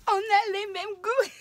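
high, loud and slow, laughing through tears; overjoyed, laughing as she speaks; tearful laughing. Real, not acted. Telling Virginie they share the same tastes, laughing tearfully. Delighted by a friend's gift.

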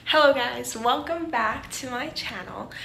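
big loud YouTuber hello; loud vlog greeting. Shown as a demonstration. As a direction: belt out the channel intro. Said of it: "so here it is".

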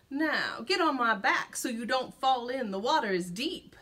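sly grinning voice; with a grin. Acted. Fox grins as he coaxes the gingerbread man. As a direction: smile through the words, coaxing. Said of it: "the fox said with a grin".

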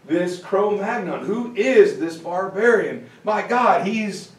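lightly hammed-up scandalised disbelief, pitch lifting; mock appalled. European nobles gossip about the barbarian at dinner, mock appalled. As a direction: play at being disgusted by a boor. Acted disgusted nobles watching Peter eat.

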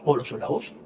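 softly whispered repeat of όλος ο λαός; whispered echo. Acted. Repeats phrase for effect. (ψιθυριστή επανάληψη του «όλος ο λαός»)

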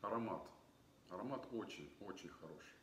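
glass held at lips; sniffing wine between words; speaking into wine glass. Real, not acted. Seen 4: Glass held at nose and mouth, sniffing wine while speaking.

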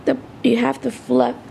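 groggy just-woke-up voice; throat still rough from sleep; morning voice. Real, not acted. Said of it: "morning voice".

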